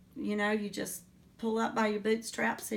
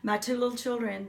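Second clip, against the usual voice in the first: getting emotional; 3 semitones higher, 3 dB louder than usual. Real, not acted. Mother fighting tears while recalling her children, choked up. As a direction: let real feeling catch the words. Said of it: "I'm gonna get emotional".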